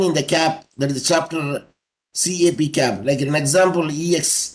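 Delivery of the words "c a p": "C A P" spelt out letter by letter; each letter of "C A P" on its own; letters said separately. Shown as a demonstration. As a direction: say "C A P" as three letter names. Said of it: "If you separately pronounce".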